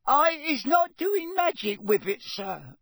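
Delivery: very high squealing elf voice. A narrator's reading. Frightened elf pleading to the official, squealing. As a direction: squeal the denial through tears. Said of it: "squealed Winky".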